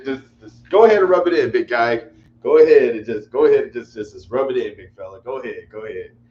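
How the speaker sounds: loud, sarcastic go-ahead at a gloating friend; mock-bitter rub it in. Real, not acted. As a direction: needle the buddy who's rubbing it in, loudly. Teasing a gloating friend in chat.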